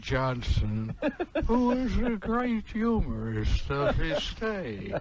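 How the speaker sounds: Groucho impression. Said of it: "Do your Groucho".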